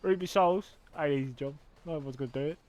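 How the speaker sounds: lightly voiced Cockney working man; Cockney geezer. Cockney crow talking about his job, light geezer voice. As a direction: give it a casual Cockney accent. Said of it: "The Cockney geezer crows".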